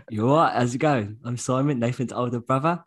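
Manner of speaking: lightly put-on Cockney, cheery greeting; a touch of Cockney, bright and friendly; Cockney accent. Brother mimicking his Cockney older brother. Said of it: "you talk about a Cockney family".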